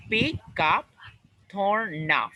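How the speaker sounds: "Pick up" run together, stress on "pick"; linked phrasal verb. Shown as a demonstration. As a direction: join "pick up" into one word, hit "pick". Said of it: "we connect in just one pronunciation".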